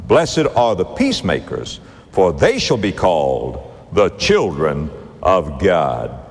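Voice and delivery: measured sermon reading of scripture. Acted. Preacher reading Beatitudes aloud in measured cadence.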